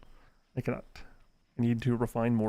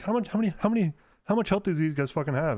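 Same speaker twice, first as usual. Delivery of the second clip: incredulous outburst; 5 semitones higher, 3 dB louder, faster than usual. Retold or imitated. Gamer shocked at enemy health.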